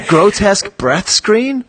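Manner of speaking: amused disbelief. Acted. Host marvelling at the packaging wording, amused and incredulous. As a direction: relish the absurd phrase "Grotesque breath screen?" with rising delight. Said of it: "That is some really great writing".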